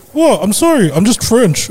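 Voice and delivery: high, mock French accent; hammed-up French accent. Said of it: "he's going".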